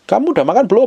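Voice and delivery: high, lilting imitation of a caring wife; wife on the phone. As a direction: play a wife checking in by phone. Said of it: "si istrinya telepon". (suara istri menelepon, tinggi mendayu)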